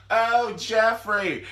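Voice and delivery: loud, high, drawn-out fake moans; mock ecstatic cries. Fiance hopping on the bed, mock ecstatic cries. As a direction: cry it out in hammed-up passion.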